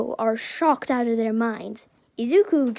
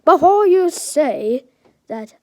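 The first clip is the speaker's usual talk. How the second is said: high, loud burst that eases off; yelled interruption; 4 semitones higher, 9 dB louder than usual. A narrator's reading. Flustered All Might cuts Izuku off, yelling out. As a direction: cut in with a sudden yell. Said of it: "All Might yells out".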